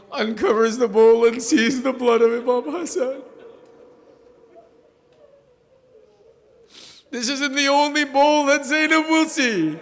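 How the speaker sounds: mournful lament. Acted. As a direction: rise into a grieving chant. Lament over Zainab and the bowl.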